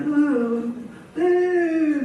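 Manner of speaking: mock high whining wail; drawn-out whimper, rising in pitch; child's wail. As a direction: imitate a child torn from mother. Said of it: "엄마 떨어지니 막 얘 마냥".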